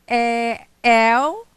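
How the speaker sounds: "L" said with a vowel in place of the owl sound, loud; Cockney owl. Shown as a demonstration. Teacher models the Cockney owl sound for the class. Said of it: "owl becomes".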